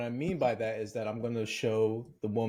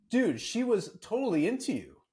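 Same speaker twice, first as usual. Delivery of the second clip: pissed brother; 9 semitones higher than usual. Retold or imitated. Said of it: "he was pissed".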